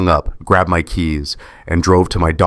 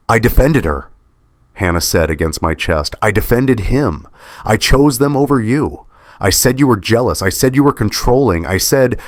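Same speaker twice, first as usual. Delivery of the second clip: distraught, voice pitched higher, pleading; sobbing; 5 semitones higher than usual. Acted. Daughter sobbing guilt into her father's chest, distraught. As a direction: pour out the guilt through tears.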